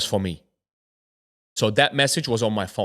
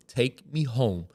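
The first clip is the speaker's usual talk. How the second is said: subdued insistence; 3 semitones lower, 7 dB quieter than usual. Retold or imitated. Begging friends to drive him home, subdued. Retold scared demand to go home.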